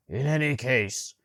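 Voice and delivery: loud, slow, stumbling speech; halting reading. A narrator's reading. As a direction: struggle through the text. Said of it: "how many times he paused".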